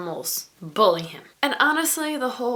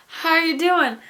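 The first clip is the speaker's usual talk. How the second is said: friendly asker; 9 semitones higher, 6 dB louder than usual. Retold or imitated. Acting out a friend asking.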